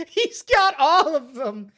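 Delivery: loud, high, laughing exclamation; real amused delight. Real, not acted. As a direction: stretch it out, loud, between bursts of laughter. Cracking up over the perks.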